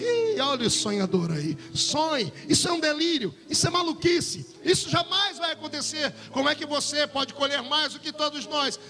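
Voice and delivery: derisive, incredulous taunting; mocking jeer. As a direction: scoff like brothers round the table. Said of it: "imagino um deboche na mesa".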